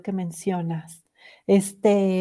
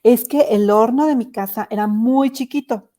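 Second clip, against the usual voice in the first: put-on light old-woman voice, a bit louder; lightly voiced grandmother matter-of-factly explaining; a hint of the old great-grandmother answering; 2 semitones higher, 5 dB louder than usual. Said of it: "la bisabuela dice".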